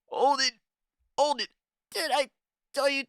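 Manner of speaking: high, loud heroine's yell; commanding shout. Acted. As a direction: stop them in their tracks at full volume. Character bursts in, stopping someone.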